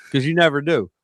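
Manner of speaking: whispered aside. Real, not acted. Teasing aside to Billy.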